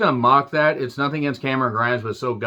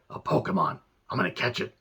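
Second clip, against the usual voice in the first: DBZ Abridged quote; 2 semitones lower, 8 dB quieter than usual. Retold or imitated. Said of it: "D B Z abridged, uh, quotes".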